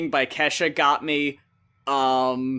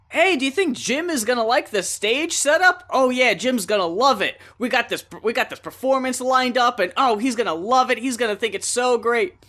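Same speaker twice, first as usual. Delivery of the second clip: excited Muppets; 6 semitones higher than usual. Retold or imitated.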